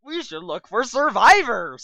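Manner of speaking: hammed-up seductive line; mock sultry hero voice; sexy voice. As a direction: say it like a heartthrob. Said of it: "said Paul sexily".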